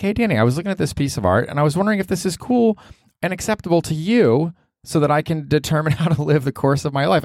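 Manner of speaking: high, sing-song fan voice; chirpy imitation of a follower asking advice; mock fan message. Podcaster mocking a fan's DM, high and sing-song.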